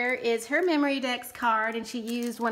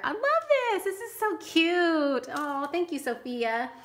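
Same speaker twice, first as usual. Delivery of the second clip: real gushing delight; 6 semitones higher than usual. Real, not acted. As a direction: gush over something adorably cute. Gushes over the handmade card.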